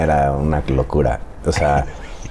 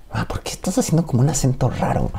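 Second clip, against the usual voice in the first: puzzled question; 8 semitones higher than usual. Retold or imitated. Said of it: "Yo le decía".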